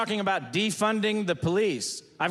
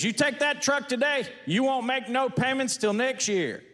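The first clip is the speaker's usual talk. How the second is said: salesman voice; 6 semitones higher than usual. Retold or imitated. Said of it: "That boy goes".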